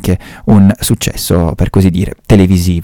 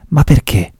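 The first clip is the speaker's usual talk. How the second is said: puzzled commissario; 6 semitones higher than usual. Acted. Montalbano questions the old lady.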